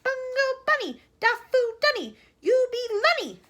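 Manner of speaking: very high, loud scream. A narrator's reading. Wonka screaming back at the aliens. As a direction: scream with all your force. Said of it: "screaming as loud as he can".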